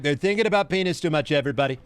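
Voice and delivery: lightly voiced comedy impression, ranting list; Trump. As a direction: rattle off the grievances in a hint of caricature. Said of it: "That sounds like a Trump rant".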